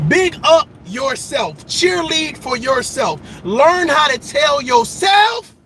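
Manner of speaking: rising motivational call; preaching shout. Acted. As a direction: preach it out, word by word. Motivational exhortation, slowed and shouted.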